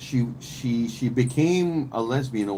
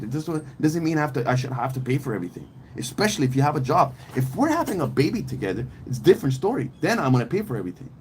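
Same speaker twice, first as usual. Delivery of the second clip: Eddie Murphy bit; 2 semitones higher, faster than usual. Retold or imitated. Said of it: "this is Eddie Murphy's joke".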